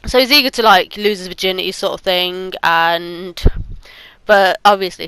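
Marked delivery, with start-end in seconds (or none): 4.3-5.1 talking with hair in her mouth; words caught on a strand of hair. Real, not acted. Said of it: "my hair's just gone in my mouth".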